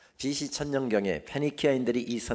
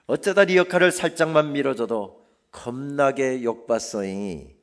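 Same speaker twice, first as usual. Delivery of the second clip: poem recited in Jeolla dialect, building louder; 5 semitones higher, 10 dB louder than usual. Shown as a demonstration. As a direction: read it in Jeolla dialect, drawing out the endings. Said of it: "저도 전라도 말로 그대로 시를 읽겠습니다".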